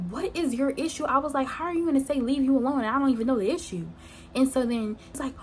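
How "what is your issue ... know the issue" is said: higher-pitched, mildly exasperated retort; mock-argue back at a friend, pitched up; retold quarrel, exasperated and hurried.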